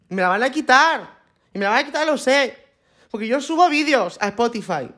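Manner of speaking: high, whiny, hammed-up despair; mock hysterical lament. Podcaster hamming up a drunk mum fearing her ex takes the kids, high whiny wail. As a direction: play the drunk mum melting down over custody. Mock breakdown over losing custody.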